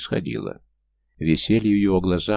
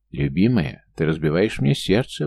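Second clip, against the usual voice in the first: ordinary delivery, nothing marked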